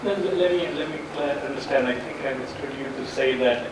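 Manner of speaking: usual speaking voice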